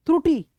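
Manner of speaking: त्रुटि with a strong ट and a short, weak final इ; त्रुटि, ट prominent, इ short; stressed ट. Shown as a demonstration. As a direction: punch the ट in त्रुटि and clip the इ. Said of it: "ट की तो उभर रही है".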